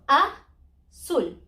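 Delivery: azul with the stress on ZUL; slow, stretched azul landing on the last syllable; a-ZUL drawn out slowly; stress on final syllable. Shown as a demonstration. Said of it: "the stress is represent always in the vowel".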